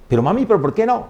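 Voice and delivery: put-on high-pitched protesting child; Jairo. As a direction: question mamá as a protesting boy. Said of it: "Decía mi hermano Jairo". (niño protestando con voz aguda)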